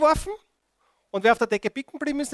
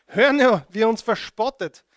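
alarmed call; 8 dB louder than usual. Acted. Israelites voiced in the story.

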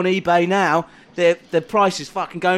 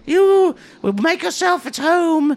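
scribe voice; 7 semitones higher than usual. Acted. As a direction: play the fussy self-important scribe. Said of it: "this character".

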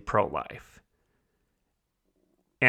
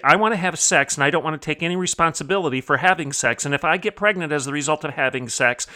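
lightly mocking, pouty rant; hammed-up entitled complaint with a slight pout; mock whining; 3 semitones higher, faster than usual. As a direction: imitate a petulant demand, a touch whiny. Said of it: "whine and pout and strut around and say".

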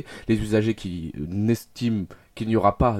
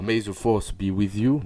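May the force be with you in a lilting English accent; a light English accent with a lilting tune; sing-song English accent; slower than usual. Shown as a demonstration. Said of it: "vous pouvez entendre mon accent anglais chantant".

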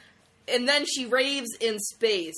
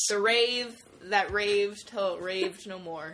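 storybook ending; slower than usual. Pretend.

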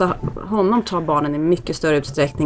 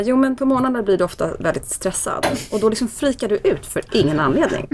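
higher, son's earnest voice; imitating son; 4 semitones higher than usual. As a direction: lightly voice the boy. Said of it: "Han bara".

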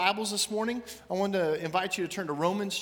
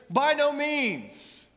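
slow, high, louder cry of By no means; emphatic yell; 8 semitones higher, 4 dB louder, much slower than usual. Acted. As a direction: stretch out By no means as a firm protest. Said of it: "he yells it with an exclamation point".

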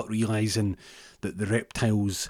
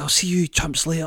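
cocky; 9 semitones higher, 5 dB louder than usual. Retold or imitated. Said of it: "And he goes".

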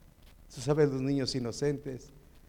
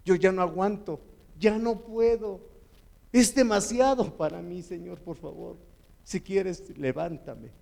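pleading, louder cry to God at the end of his strength; desperate prayer; 3 semitones higher, 4 dB louder than usual. Retold or imitated. A broken man, face down on the floor, begging God for help. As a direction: beg God to lift you up, voice straining. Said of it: "Y dije".

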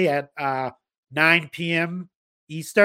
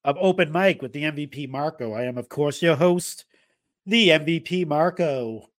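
dragged-out words. Real, not acted. Host greeting listeners, playfully dragging out the words. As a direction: stretch the words out like an announcer. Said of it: "Just dragging out the, uh, words there".

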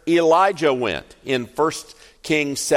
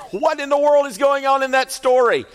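laughing question; 13 semitones higher, 5 dB louder, faster than usual. Real, not acted. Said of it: "laughs on the line".

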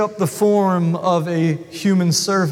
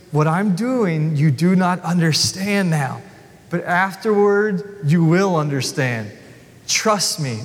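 lower, slow and gentle; gentle Jesus; 3 semitones lower than usual. Acted. Jesus gently reassuring Peter, slow and low. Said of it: "Jesus gently answers him".

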